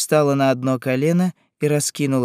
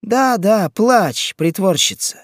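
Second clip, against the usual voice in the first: high, loud jeer; scornful cry at a pretender; madwoman's shout; 8 semitones higher, 5 dB louder, slower than usual. A narrator's reading. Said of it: "кричала помешанная". (злой, издевательский крик)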